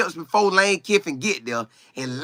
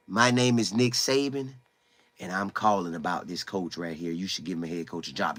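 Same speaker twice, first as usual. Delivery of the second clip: Nick Saban voice; 10 semitones lower, 10 dB quieter than usual. Retold or imitated. Saban voiced recommending a coach.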